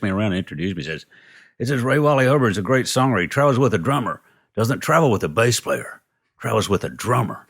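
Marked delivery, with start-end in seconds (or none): 1.6-7.5 mock-enthusiastic introduction, pitched high; proud introduction. A famous musician introduces the songwriter to big stars, proudly. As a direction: talk him up to the room, higher.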